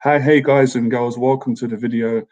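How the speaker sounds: cheery host greeting, lightly performed; upbeat intro greeting. Shown as a demonstration. Showing his new intro greeting to his viewers, cheerfully hosting. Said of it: "So this is my new introduction".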